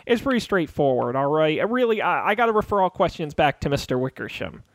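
stammering, pleading underling; nervous intern, tripping over repeated words; flustered intern guard. Acted. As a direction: babble excuses like a cornered intern.

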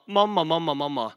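mock childish outcry, insistent and fairly loud; calling to mum. Child complaining to mum about brother's sweets, calling out. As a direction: plead with mum in repeated hammed-up bursts. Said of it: "jeg roper til mamma".

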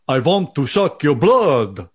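slow silky vampire voice, lightly done; a hint of a menacing Dracula accent. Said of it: "Give me an impression of a vampire".

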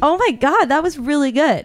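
retelling her own delighted reaction; a touch of delight, imitated; mildly excited praise. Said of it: "And I was like".

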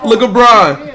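high, loud encouraging calls; excited cheering. Real, not acted. Dad cheering his toddler to walk, excited encouragement.

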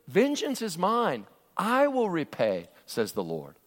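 slow, weighty reading of the verse; scripture reading. Acted. Preacher reading God's words from Romans to the congregation, slow and weighty. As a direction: let each word land slowly.

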